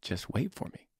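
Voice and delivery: hushed, far-off voice of God; lightly voiced God, near a whisper; God speaking softly from far away. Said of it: "And God's like".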